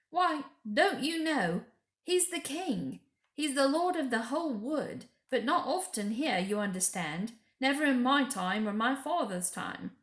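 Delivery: a beaver bursting with awe and pride; proud Mr Beaver. Acted.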